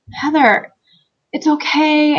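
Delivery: imitating a partner's reassurance; comforting boyfriend, imitated. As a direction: soothe someone mid-meltdown, retold. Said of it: "he's starting to comfort me".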